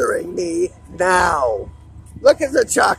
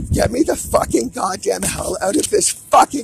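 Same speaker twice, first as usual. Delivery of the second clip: desperate shout; 2 semitones higher, 5 dB louder than usual. Real, not acted. Desperate demand to be freed.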